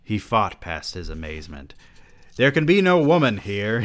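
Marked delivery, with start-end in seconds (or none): 2.3-3.8 hammed-up exclamation. Monk character protests in shock.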